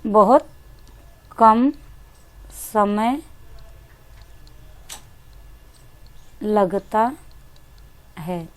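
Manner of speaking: each word spaced out with long pauses; slow word by word. Shown as a demonstration. Teacher slowly dictating to students, word by word. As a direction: spell it out slowly, one word at a time. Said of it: "देखिए, इसको बोलने में".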